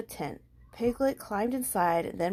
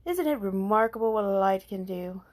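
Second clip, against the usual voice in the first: wise owl marvelling; a hint of louder wonder; pleased, scholarly owl; lightly voiced Owl; 6 dB louder than usual. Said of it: "Owl said".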